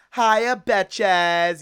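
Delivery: very loud put-on character voice, belted out. Trying out a voice while talking, the Michirugo voice. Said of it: "Let me try the Michirugo voice".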